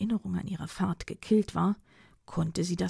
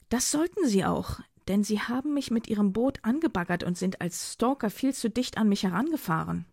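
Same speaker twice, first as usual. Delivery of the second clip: raised-pitch, mildly heated reproach; indignant accusation; 3 semitones higher than usual. Acted. Philomena accusing Dido of ramming her boat, indignant. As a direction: push back with the complaint, voice lifted. Quarrel over the boat collision.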